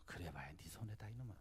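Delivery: father thinking about his son, whispered aside; inner thought whispered. Retold or imitated. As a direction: mutter it under your breath. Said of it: "속으로는 이렇게 생각했죠".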